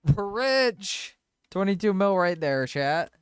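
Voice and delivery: high, loud excited shriek; shrieking jackpot winner. Real, not acted. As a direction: scream it like you hit the jackpot. Big in-game sale.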